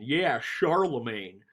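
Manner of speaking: slow country bumpkin drawl. Acted. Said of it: "which sounds really country bumpkin".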